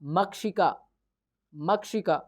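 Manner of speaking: द्विचक्रिका said syllable by syllable with a falling close; clear pronunciation. Shown as a demonstration. Teacher naming the cycle in Sanskrit, clearly. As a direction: spell out द्विचक्रिका in sound, then repeat it. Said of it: "इसको क्या कहते हैं".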